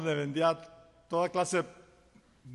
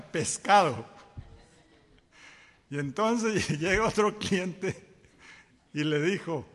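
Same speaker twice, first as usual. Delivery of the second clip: ordinary talk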